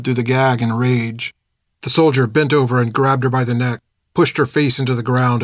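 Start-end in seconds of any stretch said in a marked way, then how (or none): none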